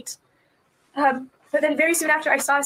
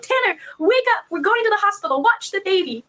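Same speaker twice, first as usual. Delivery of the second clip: retold yell; 3 semitones higher than usual. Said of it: "my husband yelled".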